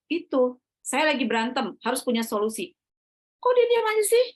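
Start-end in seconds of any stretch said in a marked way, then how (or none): 3.4-4.2 high, loud mock nagging; exasperated imitation, pitched way up; acted indignation. Wife griping about her silent husband, indignant.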